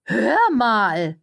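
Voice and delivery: high, loud, slowing gush; sugary high-voiced schmoozer; gushing publicist. A narrator's reading. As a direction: coo it like an overeager press lady. Cordelia addressing Thursday.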